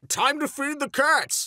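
chirpy tweet reading. Acted. Reading own tweet aloud.

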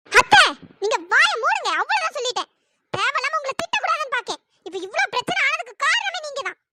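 heated blame after a hard opening; angry. Acted. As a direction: shut an elder down sharply. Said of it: "ஐயோ, என்ன இந்த அத்தை இப்படி கோவப்படுறாங்க".

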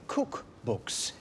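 cookbooks said as a soft voiceless aside; deadpan aside. Acted. Host to camera, repeating cookbooks in a hushed deadpan aside. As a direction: breathe cookbooks almost silently, deadpan.

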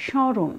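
স্মরণ with a lightly nasal first vowel; slightly nasalised vowel. Shown as a demonstration. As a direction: say স্মরণ as shõron, silent m. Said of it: "একটু নাসিক্য".

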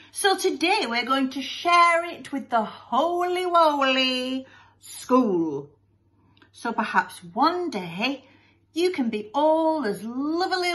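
put-on high, sing-song saccharine boy; Master Lovey-Dovey. Son addresses the whole school, sickly-sweet and high. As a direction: stretch the baby-talk words, gushing.

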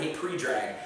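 pre-drag called out as English PREE-drag; old mispronunciation. Retold or imitated. Vlogger quoting how he called his friend, anglicised PREE-drag. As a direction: greet with pre-drag, long ee in "pre". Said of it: "That's what I used to say".

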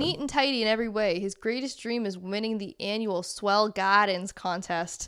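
storybook read in put-on Boston; Boston accent. Reading a lobster book description aloud, put-on Boston accent. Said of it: "reading with that accent".

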